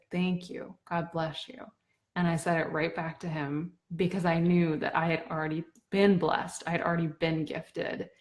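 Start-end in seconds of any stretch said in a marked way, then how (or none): 0.1-1.6 soft, gently retold thanks; quiet, understated kindness; kindly. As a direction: quote him softly and kindly. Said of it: "so kindly".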